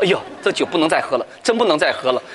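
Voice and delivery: low-pitched, sheepish vow; embarrassed, retold. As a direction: imitate a hungover man's rueful promise. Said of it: "他就很难为情地说".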